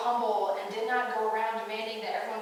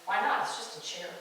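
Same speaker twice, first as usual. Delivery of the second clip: calm reply; 4 semitones lower than usual. Retold or imitated. Lionel, seated in the chair, answers enraged Birdie, calm. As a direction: answer the outburst with easy calm. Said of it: "Lionel responds calmly".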